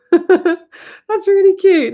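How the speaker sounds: high, loud, laughing delight; tickled laughter. Real, not acted. Streamer reacting to a viewer's compliment on her voice, laughing. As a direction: laugh through it, drawn out and high.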